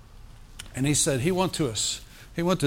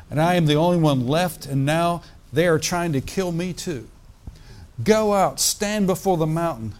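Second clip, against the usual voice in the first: scripture reading; 2 semitones higher than usual. Acted. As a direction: lift the passage from the page like a preacher. Preacher reads scripture aloud.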